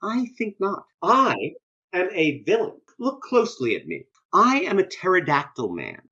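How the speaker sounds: lightly hammed-up villain boast; Sauron. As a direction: gloat like a cartoon bad guy. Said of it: "And Sauron is saying".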